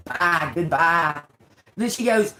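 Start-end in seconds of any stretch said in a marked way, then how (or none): 0.1-1.2 slow, dismissive bye; slow brush-off goodbye. Retold or imitated. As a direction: wave her off slowly. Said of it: "I was like".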